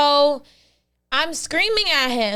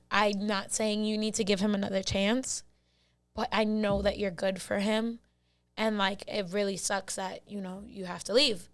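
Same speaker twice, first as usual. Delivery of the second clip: gentle sincerity; 3 semitones lower, 7 dB quieter than usual. Retold or imitated. Mother continues her gentle plea.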